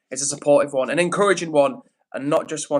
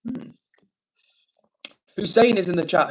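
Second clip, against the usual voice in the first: normal talking voice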